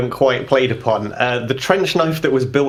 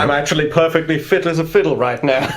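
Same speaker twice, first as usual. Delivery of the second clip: character voice; 3 semitones higher than usual. Acted. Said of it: "This isn't even my accent".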